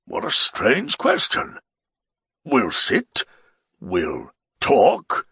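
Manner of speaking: a tipsy nobleman begging to ride away; the Baron, pleading. Acted. Baron replies.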